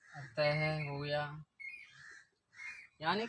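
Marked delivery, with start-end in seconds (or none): 0.1-0.9 अतः said slowly with an h sound at the end; visarga as h. Shown as a demonstration. Teacher dictating a visarga example, slow अतः closed with ह. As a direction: draw out अतः and finish on ह. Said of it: "इसका उच्चारण ह की तरह होता है".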